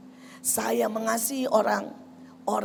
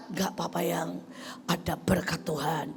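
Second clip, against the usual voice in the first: softer, calm answer to an angry husband; gentle reply; 4 semitones lower, 5 dB quieter than usual. Acted. Wife calmly blessing her raging husband, softer. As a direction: answer him gently and softly. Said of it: "wife's gentle reply".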